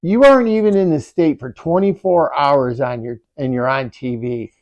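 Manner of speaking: can't believe it, laughing at them; excited disbelief. Retold or imitated.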